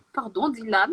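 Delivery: a sorry said through a laugh; laughing apology. Real, not acted. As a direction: apologize while bursting into laughter.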